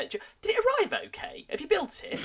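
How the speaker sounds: very high Northern English mum voice; high, hammed-up Northern English accent. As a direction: imitate a mum's eager questions in Northern English. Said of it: "given her a sort of Northern English accent".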